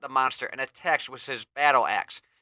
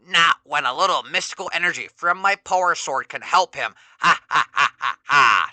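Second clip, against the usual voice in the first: louder gloating villain then cackling laugh; evil cackle; 2 semitones higher, 7 dB louder than usual. Acted. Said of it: "Skeletor cackles".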